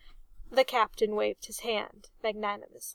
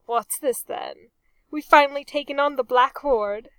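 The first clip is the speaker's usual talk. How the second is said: excited; 4 semitones higher, 9 dB louder than usual. Acted. Reg perks up excitedly.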